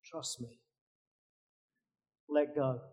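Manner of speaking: gently, trust me; the Lord reassuring Jack, hushed; calm God. Acted. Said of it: "the Lord says to him".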